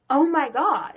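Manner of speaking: loud, high "Oh my God"; retelling the sudden breakdown; mock sob. In the car with mom, a loud, high retold gasp. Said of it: "I'm just like".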